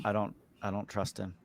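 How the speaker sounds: low-volume confidential aside, still voiced; pretend whisper. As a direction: say it quietly, as a secret to an ally. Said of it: "I'm gonna whisper to Darthos".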